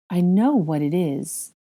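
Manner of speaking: slow, wondering statement; stretched-out stunned discovery; dawning realisation. Acted. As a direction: realise it word by word.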